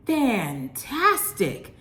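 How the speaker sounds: slow, drawn-out, falling fantastic; savoring delight. Real, not acted. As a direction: stretch fantastic long and let it drop down. Raves about pizza taste.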